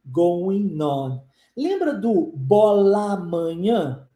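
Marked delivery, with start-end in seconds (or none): 0.0-1.2 "going on" joined as go-i-non, lower; linked words. Shown as a demonstration. Teacher repeating the linking for students, "going on" as one word. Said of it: "a gente unifica as duas coisas". 2.3-4.1 "bola amanhã" slowly merged as bo-la-manhã; fuse the two A sounds in "bola amanhã"; linked vowels. Shown as a demonstration. Teacher comparing with Portuguese linking, "bola amanhã" as one word. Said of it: "A gente faz isso em português também".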